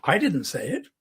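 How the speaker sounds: "I" singled out against others; stress on I. Shown as a demonstration. Coach contrasting two meanings, stress on "I". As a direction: lean on "I", someone else said it. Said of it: "Somebody else may have said it".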